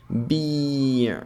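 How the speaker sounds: Bi' closed with a glottal ayn; Arabic ayn ending. Shown as a demonstration. Teacher demonstrating Bi' to the class, ayn ending. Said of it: "It means it was sold".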